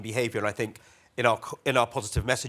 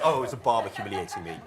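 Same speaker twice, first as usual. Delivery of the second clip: laughing mock quote; 4 semitones lower than usual. Mocking Russian state's excuse.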